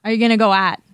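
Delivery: "at" said for out, with a flat A; Pittsburgh vowel. Shown as a demonstration. Example question in Pittsburghese, out said as "at". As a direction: end on "at" in place of out. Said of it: "so out becomes at".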